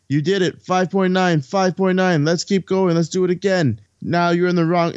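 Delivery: John Candy excited. Retold or imitated. Coach running down to his team after their run, excited. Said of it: "down comes John Candy running, going".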